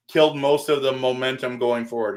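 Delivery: words with a burp. Real, not acted. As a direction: burp while talking. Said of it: "Excuse me, I just burped there".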